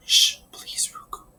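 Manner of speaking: breathy urgent whisper. Acted. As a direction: hush him without a sound. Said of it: "I whispered".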